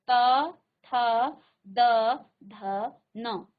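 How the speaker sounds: त ठ... no, त थ द ध न said with tongue on teeth; teacher modelling the dental row; dental row demo. Shown as a demonstration. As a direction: model त, थ, द, ध, न clearly, one by one. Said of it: "पांच बार उच्चारण कीजिए".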